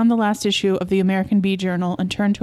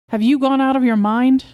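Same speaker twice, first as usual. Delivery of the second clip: raised, higher-pitched outraged question; appalled; 5 semitones higher, 5 dB louder than usual. Acted. Wife hears husband's plan for the hives, appalled. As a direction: challenge his sanity, voice raised.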